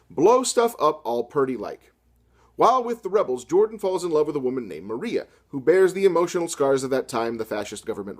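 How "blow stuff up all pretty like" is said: slow mock southern drawl on purty; hammed-up country accent, slowly; mock hick quote. Quoting Hemingway in a mock southern accent. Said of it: "and we quote Hemingway here".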